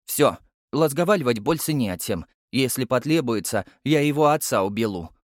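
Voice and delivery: put-on a tiny kid making a chilling threat; lisping toddler threat. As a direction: toddler threatening to kill the judge.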